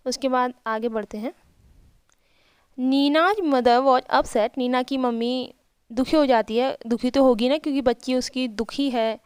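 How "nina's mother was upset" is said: slow, careful read of each English word; slow reading aloud. Shown as a demonstration. Teacher reading the English story line to her pupils, slow and careful. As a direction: read it out slowly for the class.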